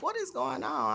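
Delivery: high, startled question, half panicked; sudden pain, startled and confused; alarmed confusion. Retold or imitated. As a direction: ask it like the pain just hit you out of nowhere. Sudden sharp pains at home.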